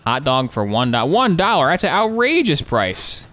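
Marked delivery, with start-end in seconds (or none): 1.1-3.3 mock outrage. Mock outrage at hot dog price.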